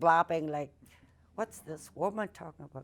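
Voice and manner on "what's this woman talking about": ordinary talk, nothing marked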